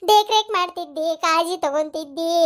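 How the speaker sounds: sing-song funeral lament, hammed up; mock grieving wail. Hungry mourner lamenting that nobody will serve tea now, mock wailing. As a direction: wail each phrase out in exaggerated grief. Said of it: "ಯಾಕೆ ದುಃಖ ಮಾಡ್ಕೊಳಕತ್ತಿ".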